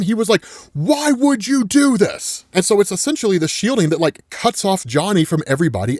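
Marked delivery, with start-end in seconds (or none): 0.7-2.4 high, drawn-out anguished cry; retold scream, pitched high without full volume; mock scream. Ben screaming at Johnny for what he did, mock scream. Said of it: "cussing and screaming at him".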